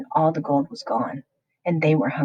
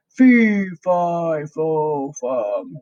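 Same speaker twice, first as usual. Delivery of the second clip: giant crying out; much slower than usual. A narrator's reading. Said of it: "he cried".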